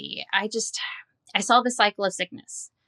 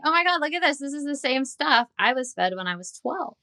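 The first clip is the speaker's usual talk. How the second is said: retold shock, lightly acted; shocked realization; 7 semitones higher than usual. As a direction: pitch jumps high on oh my God. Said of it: "I'm like".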